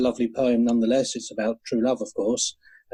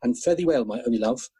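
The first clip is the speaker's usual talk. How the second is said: tender poem reading; 3 semitones lower than usual. Acted. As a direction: linger over each line like a love song. Reads Burns love poem.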